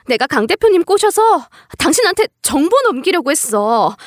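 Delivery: high-pitched, pleading self-justification; indignant wife. Acted. Wife defending her affair to her husband, indignant, high-pitched protest. Wife's acted outburst to husband.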